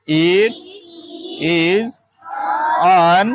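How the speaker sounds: "It", "is", "an", each on its own; pronunciation demo. Shown as a demonstration. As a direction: sound out It... is... an with long pauses. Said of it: "હવે એનો ઉચ્ચાર શું થશે". (ઉચ્ચાર શીખવતાં એક-એક શબ્દ અટકીને)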